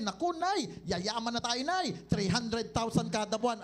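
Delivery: mock a giddy new recruit; giddy excitement. Son gushing to his mother about riches, giddy.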